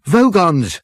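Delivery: high, loud snapped warning; snapped alarm. Acted. Ford warning the crew of the Vogons, snapped. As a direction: snap it out in alarm. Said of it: "snapped Ford".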